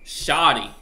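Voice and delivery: "Shoddy" with an open AW and no R; slang pronunciation. Shown as a demonstration. Streamer teaching chat the slang word, "Shoddy" without an R. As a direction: say "Shoddy" with the R dropped. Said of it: "S H A W T Y".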